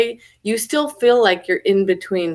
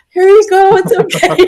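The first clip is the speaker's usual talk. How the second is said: mock-soothing; 11 semitones higher, 8 dB louder than usual. Acting out comforting a sobbing man.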